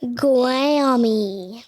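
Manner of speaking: a clear answer after the prompt; said out loud. Real, not acted. Boy repeats his answer loudly for the podcast. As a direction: say it so everyone hears. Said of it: "say it where people can hear you".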